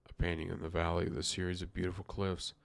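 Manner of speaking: lightly voiced detective reading; Poirot. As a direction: read it as a mildly put-on detective. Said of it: "I'm doing the best accent for Poirot".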